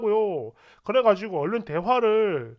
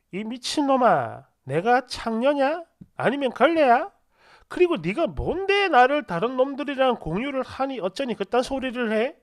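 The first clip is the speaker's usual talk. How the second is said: angry reproach; 2 semitones higher than usual. Retold or imitated. Angry breakup message acted out.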